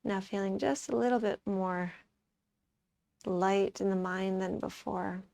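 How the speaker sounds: calm, softened yoga-teacher voice; quiet, settled meditation delivery; guided relaxation. Acted. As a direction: ease them into the next breath gently. Leads a relaxation.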